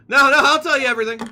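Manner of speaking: high, loud, fast mock panic; panicked pleading. Captive gives in to sailor's threat, mock panic. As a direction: blurt it out in hammed-up fear.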